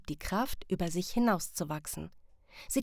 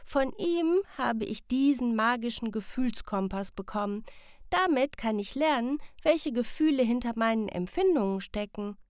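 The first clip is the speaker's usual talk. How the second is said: a lightly voiced eager child, higher; 4 semitones higher than usual. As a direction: Sam telling parents about the old man, eager child.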